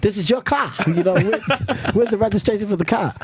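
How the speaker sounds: imitated African accent, pleading with a friend; African-accented mock protest. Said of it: "he's got this African accent".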